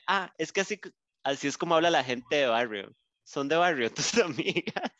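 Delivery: snooty judgment of barrio friends; mildly indignant. Retold or imitated. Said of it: "un poco indignada". (una compañera indignada juzgando a las amigas, tono altivo)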